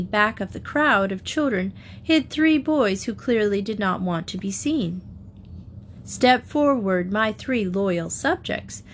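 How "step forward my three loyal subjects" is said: slow, gentle royal command; a hint of a kindly queen; queenly voice. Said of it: "in her most queenly voice".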